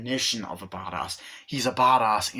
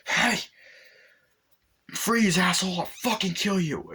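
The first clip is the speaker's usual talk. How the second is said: mock cop yell; 9 semitones higher than usual. Acted cop pulling gun.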